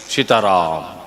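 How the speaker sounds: low, fading last word; dying sigh. Retold or imitated. Comic punchline as the patient expires, low and fading. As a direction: let it drop low and die away.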